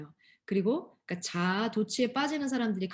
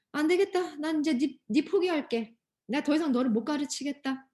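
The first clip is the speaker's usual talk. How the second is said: giving up on you; 3 semitones higher than usual. Pretend. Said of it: "이렇게 절대로 포기하지 않으세요".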